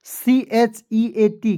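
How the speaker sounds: very slow letter by letter spelling. Shown as a demonstration. Teacher spelling out heat to students, very slow. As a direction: drag each letter for the class. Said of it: "teacher spells slowly for class".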